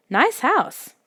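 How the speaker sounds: gruff voice. A narrator's reading. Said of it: "he said in a gruff voice".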